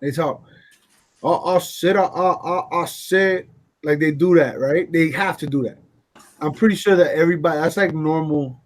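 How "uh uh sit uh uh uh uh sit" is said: Foghorn Leghorn stammer. Retold or imitated. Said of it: "they talk like Foghorn Leghorn".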